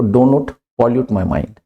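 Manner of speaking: each word spaced out slowly; slow model sentence. Shown as a demonstration. Teacher to students, modelling the phrase slowly. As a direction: say it slowly so students can repeat. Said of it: "दिमाग खराब मत कर".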